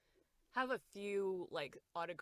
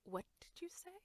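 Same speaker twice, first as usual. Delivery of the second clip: whispered, baffled; incredulous whisper; 7 semitones higher, 8 dB quieter than usual. Retold or imitated. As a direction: whisper it like a shocked classmate. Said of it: "And they were like".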